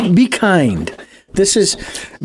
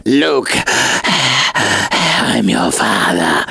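deep, slow menacing villain voice; Darth Vader voice; 7 semitones lower, much slower than usual. Retold or imitated. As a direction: drop low and drag it like Vader. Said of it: "Voices, creepy voice".

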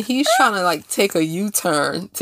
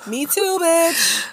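sassy; 7 semitones higher, much slower than usual. Real, not acted. Sassy punchline.

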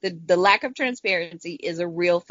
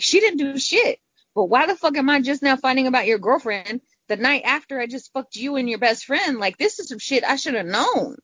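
higher, heated angry outburst; angry at the boyfriend, a raised voice; furious rant; 6 semitones higher than usual. Retold or imitated. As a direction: vent the fury at him. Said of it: "I'm so fucking furious".

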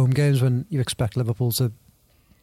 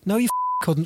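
censored with a bleep; 5 semitones higher, slower than usual. Real, not acted. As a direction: swear word cut by a bleep. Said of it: "Paul Wheelock needs to bleep that".

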